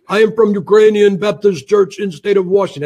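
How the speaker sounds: imitating a Russian caller; lightly put-on Russian accent, slightly stilted. Retelling a suspicious phone call, mock Russian accent. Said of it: "with this Russian accent".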